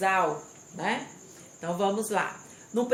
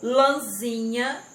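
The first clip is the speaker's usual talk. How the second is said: "Lãzinha" drawn out slowly and louder; stressed syllable demo; 3 semitones higher, 5 dB louder, slower than usual. Shown as a demonstration. Teacher reading words to circle the tonic syllable, slow and emphatic. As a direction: stretch out "Lãzinha" so ZI stands out. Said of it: "Circule a sílaba tônica".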